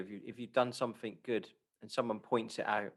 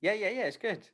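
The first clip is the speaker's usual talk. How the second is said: higher and louder, bubbling over; excited giggly reaction; 6 semitones higher, 5 dB louder, faster than usual. Real, not acted. Listener laughs at own slouching, excited and giggly. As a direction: gush through a self-conscious laugh.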